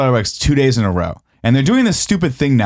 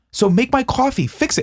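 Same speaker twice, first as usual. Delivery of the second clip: much higher, exasperated demand; mock irate demand; 11 semitones higher than usual. Customer ordering the manager to fix it. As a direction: jab it at the manager.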